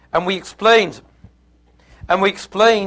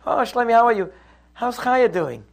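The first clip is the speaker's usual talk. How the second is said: lightly acted friendly greeting, a bit higher; suddenly calm; 4 semitones higher than usual. Wife greets Shlomi mid-quarrel, suddenly calm and friendly. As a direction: chat pleasantly as if nothing happened. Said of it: "everybody all of a sudden is calm".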